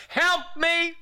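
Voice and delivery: high, strained cry for help; reenacted plea for rescue; desperate plea. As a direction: call out like a drowning man. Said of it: "That's all I said".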